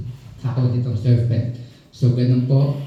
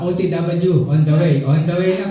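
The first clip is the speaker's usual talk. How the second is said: higher, breezy fake-casual excuse; lying late friend; 5 semitones higher than usual. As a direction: toss it off like you're already on the way. Excuse of late person mimicked.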